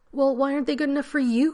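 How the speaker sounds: sharp, loud and high retort; angry retort. A narrator's reading. Rodney retorting to John about the gifts, angry and loud. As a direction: fire it straight back at him. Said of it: "Rodney retorted".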